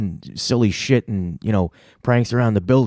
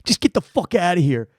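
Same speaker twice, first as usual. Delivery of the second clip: raised-pitch indignant complaint; retold exasperated rant; 8 semitones higher than usual. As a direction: act out a fed-up boss throwing someone out. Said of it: "He's like".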